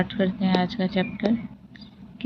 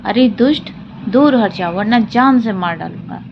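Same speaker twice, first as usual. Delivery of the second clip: lion roaring. Acted. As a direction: threaten the fly like an angry lion. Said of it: "वह जोर से दहाड़ा".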